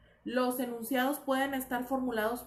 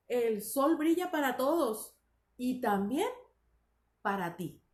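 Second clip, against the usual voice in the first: slow, emphatic sentence with a closed melody; varied intonation demo. Shown as a demonstration. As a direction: spread the energy across each phrase. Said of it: "se dan cuenta cómo va variando la forma". (entonación marcada y cerrada)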